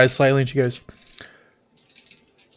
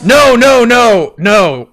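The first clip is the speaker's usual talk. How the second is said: high, louder hurried nos; flustered denial; 9 semitones higher, 7 dB louder, much slower than usual. Acted. Dwarf backpedaling to the Goliath, flustered and high. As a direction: backpedal in a panic.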